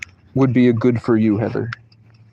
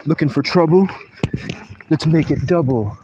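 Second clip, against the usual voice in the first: Team Rocket; 5 semitones higher than usual. Acted. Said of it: "Why is Team Rocket coming into my head?".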